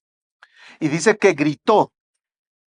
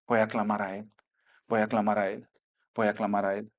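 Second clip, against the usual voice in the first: quiet resolve; 6 semitones lower, 7 dB quieter than usual. Retold or imitated. Blind man's imagined resolve.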